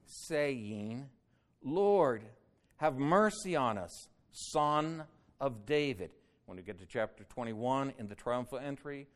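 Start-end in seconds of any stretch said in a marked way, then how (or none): 1.6-6.1 loud, raised plea for mercy; crying out. A narrator's reading. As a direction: call out higher and louder, imploring. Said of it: "cried out".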